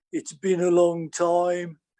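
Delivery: put-on broad Birmingham accent, drawn out slowly. Retelling meeting an old acquaintance after years, in a singer's broad Birmingham accent. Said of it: "he's still in his broad Birmingham accent".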